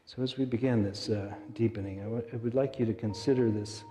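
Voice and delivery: calm guided meditation. Acted. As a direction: ease them toward sleep. Leads a meditation over music.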